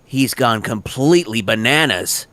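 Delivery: slow, deliberate take. Shown as a demonstration. Actor offers line variations, slow deliberate. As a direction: lay each word down slowly. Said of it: "I'll give you a few of those".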